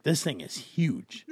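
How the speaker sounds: imitating a partner gushing through a laugh, slow; laughing imitation. Quoting her boyfriend's reaction to the ring, laughing. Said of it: "And you're like".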